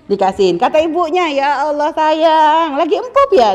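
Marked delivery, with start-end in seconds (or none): 1.3-3.5 put-on slow, doting coo to the baby; fond cooing. Mother taking the dirty baby from father, cooing fondly. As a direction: smile through "Ya Allah sayang". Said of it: "ibunya karena kurang akal senyum-senyum".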